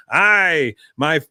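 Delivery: lightly voiced young troll warrior; a hint of a boastful dwarf; mild mock battle boast; Bobby as a troll. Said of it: "Bobby's voice coming out of him".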